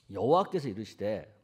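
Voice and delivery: usual speaking voice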